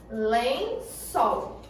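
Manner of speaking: "Lençol" in two parts, weight on "çol"; stress on final syllable. Shown as a demonstration. Teacher demonstrates the strongest syllable, stretching "çol" in "Lençol". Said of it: "a que eu fizer mais força".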